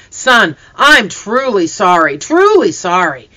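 slow, emphatic, heartfelt apology; earnest apology. A narrator's reading. Hunter apologizing to the boy he frightened, earnest. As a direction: lean hard on each sorry, drawn out.

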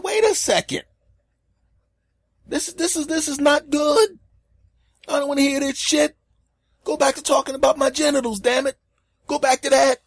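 high-pitched loud comic outrage; hammed-up indignant rant; exasperated protest.

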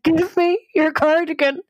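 high-pitched, frantic retold demand; near-tears desperation. Insisting to her puzzled friend, desperate high-pitched plea. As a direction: plead urgently, voice pitched right up. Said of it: "kinda starting to cry".

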